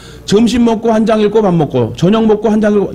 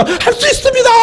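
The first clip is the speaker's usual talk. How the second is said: reenacted triumphant cry. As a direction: act out a sudden joyful cry of faith. (벌떡 일어나 외치듯 아주 높은 목소리로)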